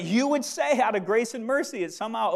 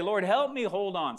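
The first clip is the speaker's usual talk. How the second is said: as a prayer. Shown as a demonstration. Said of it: "make it a prayer".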